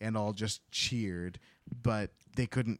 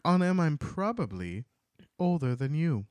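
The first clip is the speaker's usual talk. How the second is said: quoting a character; 5 semitones higher, 3 dB louder than usual. Retold or imitated. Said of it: "She's like".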